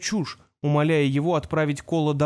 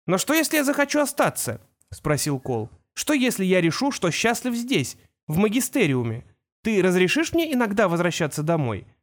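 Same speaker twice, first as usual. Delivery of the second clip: put-on young boy's voice, a bit higher; a son talking to his father, lightly raised boy voice; boy Kol; 4 semitones higher than usual. Kol reassures his father over the whirlwind, young boy voice.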